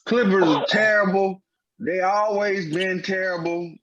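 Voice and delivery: emphatic. Real, not acted. Heated rant about the Clippers.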